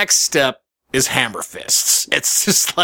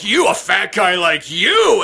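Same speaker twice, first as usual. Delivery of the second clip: mock indignation, higher and drawn out; pissed-off heckler; 4 semitones higher, slower than usual. Heckler insults the comedian mid-quiz, mock indignation. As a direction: imitate the heckler's slow jeer. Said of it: "this dude got pissed".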